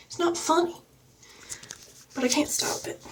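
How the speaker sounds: soft unvoiced whisper; sheepish whisper. Real, not acted. To viewers about the accent, an embarrassed whisper. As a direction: confess it under your breath.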